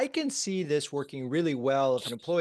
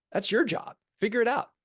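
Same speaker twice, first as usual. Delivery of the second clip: higher-pitched mock CEO brush-off; dismissive boss; 8 semitones higher than usual. Host voicing the CEO's likely reply to the CMO, dismissive. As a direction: toss it back at them, pitched up.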